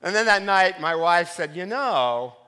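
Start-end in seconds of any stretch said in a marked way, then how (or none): 1.5-2.4 pointed tone. Retold or imitated. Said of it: "and there was a tone".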